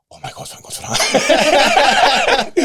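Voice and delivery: high, slow laughing relief. Retold or imitated. Retelling the kilo drop to his friends, slow laughing relief. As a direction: let the relief spill out in a laugh. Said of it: "And I was like".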